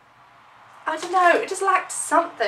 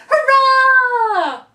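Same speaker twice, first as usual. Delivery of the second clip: loud high hurrah; cheering; 11 semitones higher, 7 dB louder than usual. Acted. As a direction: throw out a big cheer. Cheering for a singer.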